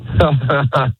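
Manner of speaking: a short, forced laugh put on for the host; fake laugh on request. A guest does his fake laugh when the host asks, forced chuckle. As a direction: laugh on cue, clearly faked. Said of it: "let me hear your fake laugh".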